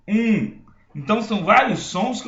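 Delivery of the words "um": nasal "um", held through the nose; nasal u vowel. Shown as a demonstration. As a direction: sustain a nasal "um". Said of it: "eu posso falar". ("um" nasal e sustentado)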